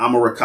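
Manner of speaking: America said as "ah-ma-ra-KAH"; original Mayan pronunciation. Shown as a demonstration. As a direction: say America with open ah vowels and a KAH ending. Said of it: "Something like that".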